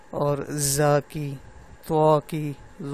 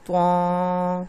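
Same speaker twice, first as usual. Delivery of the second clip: mouth closed; much slower than usual. Shown as a demonstration. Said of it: "منہ بند کر کے میں بول رہا ہوں".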